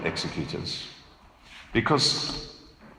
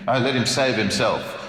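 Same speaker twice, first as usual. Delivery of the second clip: sneering; 3 semitones higher, 3 dB louder than usual. Retold or imitated. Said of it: "They're sneering at him".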